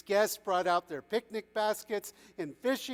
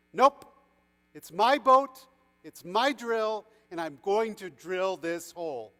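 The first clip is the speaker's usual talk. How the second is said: loud, punchy refusal that settles down; stubborn refusal; 2 semitones higher, 7 dB louder than usual. A narrator's reading. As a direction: dig your heels in, hitting each claim. Fisherman stubbornly refuses the passengers.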